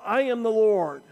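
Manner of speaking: emphatic, authoritative revelation; Jesus declaring himself. Acted. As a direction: answer with ringing certainty. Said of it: "acknowledging to Paul".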